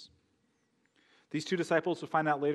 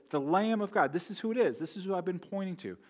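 John announcing Jesus with mild excitement, higher pitched; excited announcement; 5 semitones higher than usual. Acted. John pointing out the Lamb of God, excited. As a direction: point him out eagerly, voice lifted.

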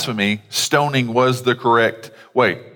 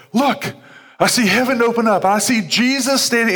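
bold proclamation; 11 semitones higher than usual. Retold or imitated. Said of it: "he has the nerve to go".

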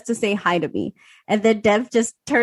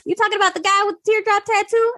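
imitated coworker Sam; 10 semitones higher than usual. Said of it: "she's like".

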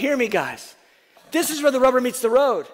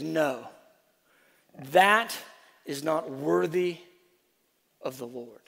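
much softer, lower, slow rebuke; hushed rebuke; 8 semitones lower, 8 dB quieter than usual. Acted. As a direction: drop to a near hush. Paul voiced rebuking quietly.

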